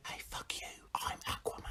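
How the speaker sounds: unvoiced whisper in the ear. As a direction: whisper it close. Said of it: "whispers in my ear".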